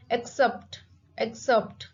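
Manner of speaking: "accept" with CEPT stressed; teacher's model "accept", weight on CEPT; stress on sept. Shown as a demonstration. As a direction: hit the second syllable of "accept". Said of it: "The stress is on sept".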